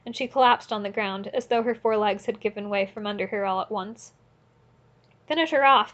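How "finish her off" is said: higher, louder savage order; shout. A narrator's reading. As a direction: roar blind with rage. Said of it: "Mikolka shouted".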